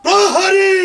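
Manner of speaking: loud royal summons; calling out. Acted. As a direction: call the guard sharply. King calls the guard.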